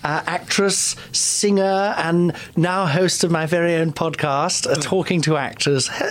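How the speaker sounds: lightly voiced grand old actress; breathy vintage purr. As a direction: gush like a faded theatre diva. Anna Mann diva persona.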